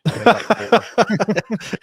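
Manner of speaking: high, amused chuckling; real laugh. Real, not acted. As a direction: laugh along at the co-host's joke. Amused by the basement joke.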